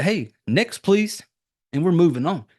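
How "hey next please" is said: brisk, chirpy call for the next customer; mock cheery next. To the waiting line of customers, a chirpy call. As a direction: sing out the next, please. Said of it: "It's like".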